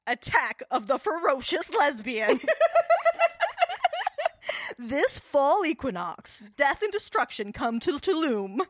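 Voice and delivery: dramatic trailer narration with laughs; movie trailer voice. Pretend. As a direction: announce it like a film trailer. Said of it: "make that trailer".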